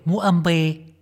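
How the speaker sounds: أمبي said with an m before the b; mock the wrong أمبي; wrong pronunciation. Shown as a demonstration. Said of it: "هي أبي بالباء". (أمبي بميم زايدة)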